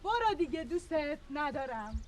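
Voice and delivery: loud, then slow hurt words; angry dismissal. Acted. Wife sending husband away, loud then slow and hurt. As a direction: push him away in anger.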